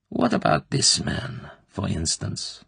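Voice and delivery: slow, sly intimate questioning; insinuating colonel. Acted. Klebb probing the girl's private life, slyly. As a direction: lean in and savour each question.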